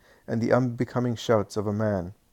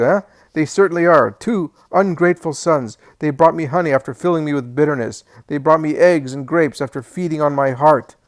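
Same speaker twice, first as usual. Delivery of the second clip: loud, higher, furious senile shouting; angry old man; 3 semitones higher, 8 dB louder than usual. Acted. Alphaeus shouts his wife out of the room, furious.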